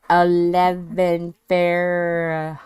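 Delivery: very slow, halting "Fair-"; struggling word attempt. Real, not acted. Streamer tripping over Fahrenheit, slow and halting. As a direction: drag out eleven, stall on Fair-. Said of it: "Words are challenging".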